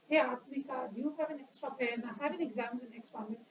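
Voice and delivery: soft, unhurried plea with no urgency; too slow and calm. Shown as a demonstration. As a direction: ask for the pen lazily, as if there's all the time. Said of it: "No, paste up".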